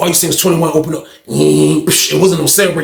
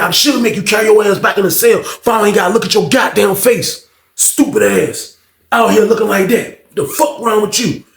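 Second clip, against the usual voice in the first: bullying cellmate. Retold or imitated. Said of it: "That's how he used to talk to John".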